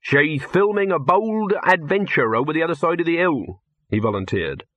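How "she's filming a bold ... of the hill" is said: lightly voiced, higher-pitched handleman; volunteer it in a slightly put-on voice; helpful handleman. Handleman tells the director where the actress is, lightly voiced and helpful.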